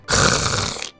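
voiceless, drawn-out "kheu"; appreciative throat rasp. Real, not acted. Streamer savoring his industrial zone, appreciative rasp. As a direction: let out an impressed raspy exhale.

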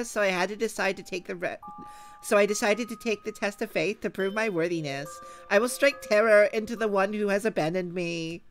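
put-on high, loud valley girl read. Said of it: "gonna have to be read in the Valley Girl voice".

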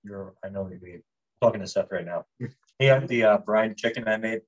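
talking with a mouthful; words round a bite of food; mouth full. Real, not acted. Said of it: "I was talking with my mouth full".

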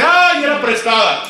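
high, slow wail of dismay; mock wail over the borrowed axe; dismayed lament. Retelling the woodcutter losing the axe, high mock wail.

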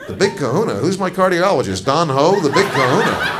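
incredulous mockery. Comic mocks nurse's phrase.

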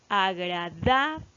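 "agradable" slowed, lingering on "da"; stress on DA. Shown as a demonstration. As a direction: stretch the "da" in "agradable", then let "ble" drop. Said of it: "recae sobre la sílaba da".

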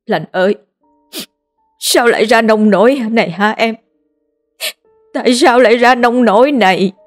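grieving cry over a lost sister; anguished lament. A narrator's reading. Linh mourning her dead maid, grieving cry. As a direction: call out to her in grief, rising.

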